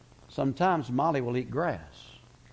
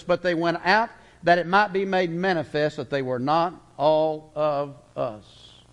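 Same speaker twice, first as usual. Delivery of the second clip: a touch of scripture reading. Acted. Reads scripture aloud.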